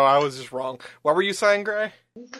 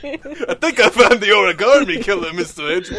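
gumshoe voice. Pretend. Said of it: "Roll those R's".

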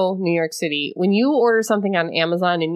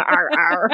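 pirate growl; 5 semitones lower than usual. Retold or imitated. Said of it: "You look like a pirate".

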